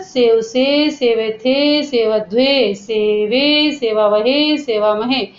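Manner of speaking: steady rote chant of verb forms; recite along. Shown as a demonstration. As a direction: lead the class in call-along recitation. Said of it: "बोलो मेरे साथ साथ".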